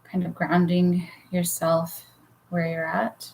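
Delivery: unhurried guiding voice with long pauses; guided meditation. Real, not acted. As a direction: lead listeners gently into relaxation, leaving room to breathe. Leads a guided relaxation.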